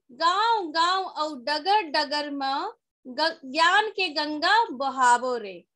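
measured, rhythmic verse delivery; poem recitation. Shown as a demonstration. Teacher showing pupils how to recite a Chhattisgarhi poem, poem recitation. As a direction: recite it line by line as a model. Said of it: "recite poem like this way".

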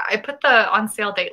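normal talking voice

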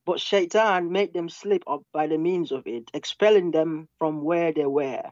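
slow, measured reading of a verse. Shown as a demonstration. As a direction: read out slowly and deliberately. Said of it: "the verses slowly, so I can stop you".

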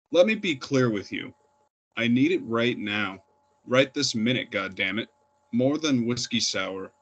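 emphatic verse reading, line openings punched; poetry reading. Acted. Poet craving a Marlboro kiss, emphatic recital to an audience. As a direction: recite it with insistence, pausing between images. Reads own poem aloud.

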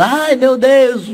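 high, drawn-out labour wail; mock cry of agony, pitched high; crying out in pain. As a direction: wail it slowly like a woman in labour.

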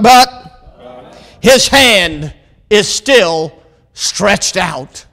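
loud start, then slow measured proclamation; deliberate pulpit cadence; emphatic preaching. Real, not acted. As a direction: draw each phrase out with weight. Proclaims verse, drawing it out.

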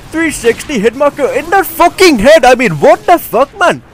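high-pitched, exasperated disbelief; annoyed outburst. Real, not acted. Gamer raging at a failed three sixty, annoyed. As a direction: rant at the game in real annoyance. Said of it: "I'm getting very annoyed".

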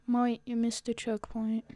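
playful put-on English accent. Player repeating a line to self, English accent. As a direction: slip into a casual English accent. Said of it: "talking in this English accent".

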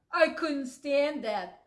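slow, whimpering sheep; a tearful sheep, slow and whimpering. Acted. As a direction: whine it like a sad sheep. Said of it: "said Sheep".

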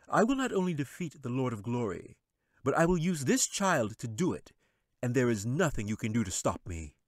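high, sly wizard voice. Acted. Wizard dismissing the angel, sly and high. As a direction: sneer it down from the throne.

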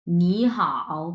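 নি rising, then a low dipping হাও; Mandarin tone demo. Shown as a demonstration. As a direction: model নি হাও as tone two plus tone three. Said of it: "দুইটা একসাথে কিভাবে উচ্চারণ করব".

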